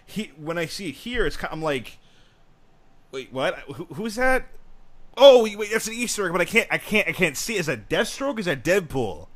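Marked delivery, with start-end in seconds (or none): 3.1-9.3 mock confusion, straining to see; hammed-up puzzled fan spotting an Easter egg; confused viewer.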